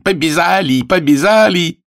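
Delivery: high, repeated excited cry; boy's shout. Acted. Greek imp of a boy dancing on the fence, shouting high. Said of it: "кричит".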